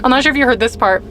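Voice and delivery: lisping from dental trays; relieved chatter with a lisp. Real, not acted. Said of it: "Sorry, the lisp".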